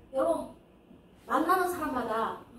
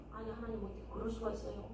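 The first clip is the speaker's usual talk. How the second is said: soft, quick, lowered complaint; hurt protest; 3 semitones lower, 13 dB quieter, faster than usual. Acted. Samuel protesting to God after a closed prayer, quietly hurt. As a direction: act out quiet disappointment, low and hurried. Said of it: "굉장히 섭섭했을 거예요".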